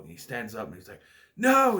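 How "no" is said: high, loud mock yell; imitated desperate outcry; acted cry of protest. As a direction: shout it like a dramatic movie hero. Acts out character's cry in film.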